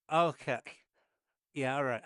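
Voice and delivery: a pleased, surprised okay after the first bite; taken aback by how good it is. Retold or imitated. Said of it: "I'm surprised".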